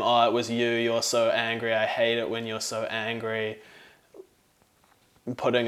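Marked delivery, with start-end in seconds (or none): 0.0-3.6 louder, mock accusing tone; blaming quote. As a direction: act out blaming your partner. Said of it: "not blaming them".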